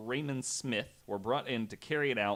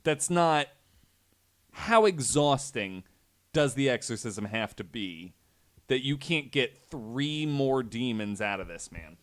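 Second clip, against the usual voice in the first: exasperated disbelief; 2 semitones higher, 5 dB louder than usual. Retold or imitated. Host scoffing at the priests' failed exorcism, exasperated disbelief. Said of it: "And I'm like".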